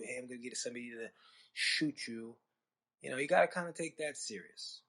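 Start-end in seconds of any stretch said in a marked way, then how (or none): 0.0-2.4 put-on fast, lightly done Italian mobster accent, a casual threat; a hint of a New Jersey Italian threatening, tossed off quickly; Italian tough-guy accent. Comic imitating an Italian guy's offhand threat, mild Italian accent. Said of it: "when somebody Italian tells you".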